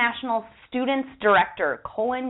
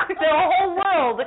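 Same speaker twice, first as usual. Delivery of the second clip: laughing through the words, slow and higher; 8 semitones higher, slower than usual. Real, not acted. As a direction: giggle out the big declaration. Laughing declaration of love.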